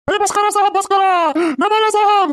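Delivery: high, pleading cries; comic old man whimpering plea; begging wail. Acted. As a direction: beg the officer to stop hitting. Old man begs inspector to stop.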